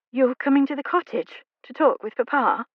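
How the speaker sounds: eyes wide, she blurts it out; surprised heroine. Acted. Heroine stunned that he will visit her father.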